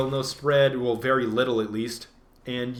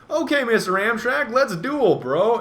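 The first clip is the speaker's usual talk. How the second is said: high, loud cocky challenge; mock-tough taunt to the enemy tank; 8 semitones higher, 4 dB louder, slower than usual. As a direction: call out the tank like a duelist. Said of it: "and I said".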